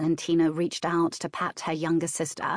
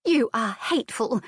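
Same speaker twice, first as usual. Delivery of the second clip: higher, emphatic sisterly spite; hissed anger; 6 semitones higher, 3 dB louder than usual. A narrator's reading. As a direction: hiss it with restrained venom. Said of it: "hissed at her sister".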